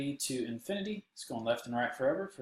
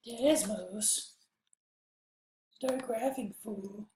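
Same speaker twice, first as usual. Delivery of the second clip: mock announcer; 9 semitones higher, much slower than usual. Playful hype voice for app.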